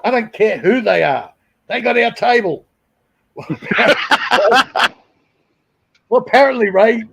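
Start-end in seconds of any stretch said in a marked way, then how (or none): 0.0-2.6 high, emphatic mock outrage; indignant insistence. To Sarah about the band, raised indignant insistence. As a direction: insist the table is yours.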